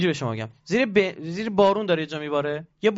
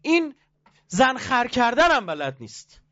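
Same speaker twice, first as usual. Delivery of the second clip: mock wife complaining; 7 semitones higher, slower than usual. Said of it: "خانومه رسما جلو چشم من برگشت گفت".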